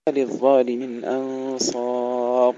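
slow recitation, "أنصار" ending on a full ر; heavy ra. Shown as a demonstration. Teacher recites for learners who open the alif, heavy ra. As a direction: draw out "أنصار" and thicken its ر. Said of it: "تفخيم الراء".

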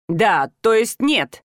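plain reading voice

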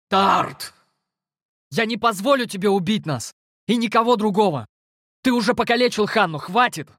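high, strained desperate plea; strained through teeth. A narrator's reading. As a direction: force it out through clenched teeth. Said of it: "Сквозь зубы процедил я". (высокий надрывный крик сквозь зубы)

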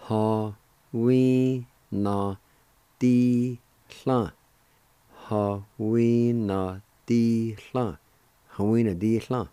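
"Ha. We. Na. Di. Hla." as separate beats, then joined; teacher sounding out syllables; syllable drill. Shown as a demonstration. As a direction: break the word into syllables, then blend. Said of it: "it's pronounced like this".

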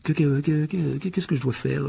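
nervous repeated que, que, que; stammering. Acted. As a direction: stumble over the first word. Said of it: "balbutia-t-il". (bégaiement nerveux)

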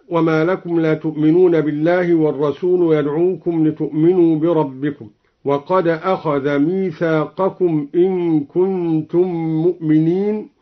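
measured tartil chant; Quran recitation. Acted. (ترتيل قرآني)

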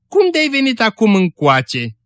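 high-pitched, slow surprised question; surprised greeting. A narrator's reading. Woman asks unexpected visitor why she came, surprised greeting.

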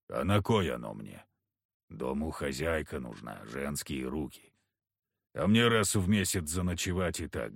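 low, gruff backwoods hunter. Acted. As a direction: speak it low and heavy like a surly hunter. Kharisim grumbling.

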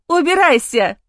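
high, loud furious yell; growled shout. Acted. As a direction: snarl it at him. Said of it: "рычит супруга".

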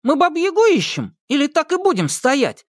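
high-pitched impatient challenge; cross. A narrator's reading. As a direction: demand it with mild anger. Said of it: "рассердился Сенька".

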